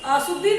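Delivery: अशुद्धि as asuddhi with a plain 's'; mispronounced s for sh. Shown as a demonstration. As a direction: say अशुद्धि wrongly as a-sud-dhi. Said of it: "ma'am गलत बोल रही हैं".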